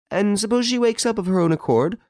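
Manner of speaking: put-on very high old lady's question. A narrator's reading. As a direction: ask as the worried old lady, pitched right up. Old lady asks on telephone.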